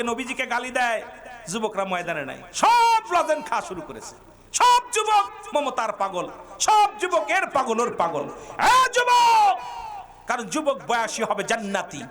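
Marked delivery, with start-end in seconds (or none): 2.5-9.6 high bursts of exasperated preaching; scolding preacher's shout. Real, not acted. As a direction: berate the youth, ending in a loud cry. Scolding absent youth, calling out. (ভর্ৎসনার চড়া গলা)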